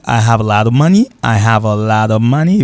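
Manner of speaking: "I have a lot of money" en anglais, "of" avec V; anglais démontré. Shown as a demonstration. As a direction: dire la phrase en anglais. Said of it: "de ça, m'a dit". (démonstration en anglais)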